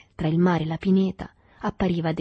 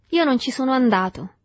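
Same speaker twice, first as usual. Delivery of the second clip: fawning; 7 semitones higher, 5 dB louder than usual. A narrator's reading. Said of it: "in tono di adulazione".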